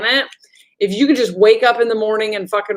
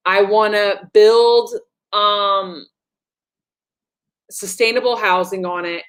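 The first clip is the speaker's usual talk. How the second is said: talking like aliens. Shown as a demonstration. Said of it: "how the aliens talk to me now".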